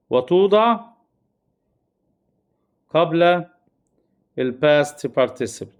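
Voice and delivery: words spaced apart, last phrase very slow; drawn-out teaching delivery; slow dictation. Shown as a demonstration. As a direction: spell the rule out slowly. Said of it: "dictating rule word by word".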